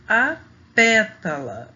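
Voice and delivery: "pétala" slow with a loud "pé"; "a pétala" spaced out, strong on "pé"; stress on first syllable. Shown as a demonstration. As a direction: punch the "pé" of "pétala", then let it drop. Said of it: "que a gente pronuncia ela mais forte".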